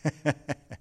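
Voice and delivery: soft, short chuckle; imitated laugh. Pastor imitates man laughing at his hurt thumb, soft chuckle. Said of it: "I began to laugh".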